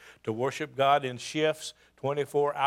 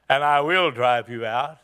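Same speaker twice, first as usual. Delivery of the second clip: calm vow; 3 semitones lower, 5 dB louder than usual. Acted. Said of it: "the tenor of the whole thing changed".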